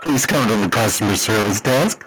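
store PA announcer; flat echoey pa page. Retold or imitated. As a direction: read it like a tannoy page. PA announcement continues.

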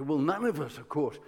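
sheepish, subdued protest; mortified underlings. Retold or imitated. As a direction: imitate underlings backing away from blame. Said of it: "they're mortified, and they say".

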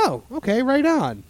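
high-pitched, pleasantly impressed reaction; re-enacted keen approval. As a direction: play back being sold on it, voice lifted. Acting out being sold on the dish.

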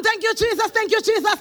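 mock spooky prayer. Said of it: "You're going to be spooky".

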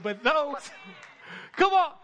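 loud joyful outburst; excited preaching. Real, not acted. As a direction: shout it with joy. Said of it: "Maybe I'm just excited about it".

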